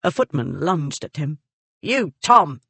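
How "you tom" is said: loud, higher sharp call; maid cries out. Acted. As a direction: stop the footman with a shout. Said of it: "the maid cried".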